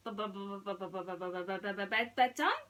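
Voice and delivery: lightly voiced timid little mouse, stammering; stuttering mouse. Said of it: "Gus asked".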